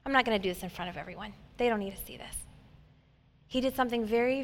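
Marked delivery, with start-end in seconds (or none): 0.0-2.4 soft, private reassurance, quicker at the end; gentle Jesus. Retold or imitated. Jesus taking the deaf man aside, softly reassuring. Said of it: "He's like".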